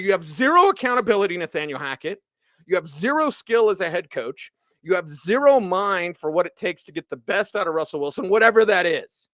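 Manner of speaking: heated rant, punching each zero. Real, not acted. Host ranting straight at the head coach, heated and building. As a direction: tear into him, hitting every zero hard. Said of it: "And I am yelling and screaming".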